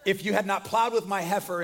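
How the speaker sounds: quoting the line through a laugh; amused chuckling quote. Retold or imitated. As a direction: say it while cracking up at it. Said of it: "I would not recommend is ever using the words".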